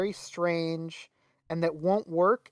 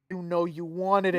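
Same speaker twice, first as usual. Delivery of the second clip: cocky Billy; 3 semitones lower than usual. Retold or imitated. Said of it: "And he goes".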